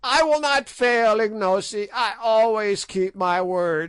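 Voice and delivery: a hag agreeing with a hidden sneer; old witch promising the king; sly old witch. A narrator's reading. Gagool promises slyly.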